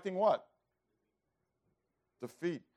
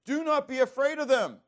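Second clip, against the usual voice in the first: emphatic scripture; 9 semitones higher, 7 dB louder than usual. Acted. Reads scripture, louder.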